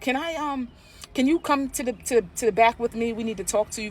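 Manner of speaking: the nurse politely asking you back; mimicking the staff lady. Staff lady calling owner back.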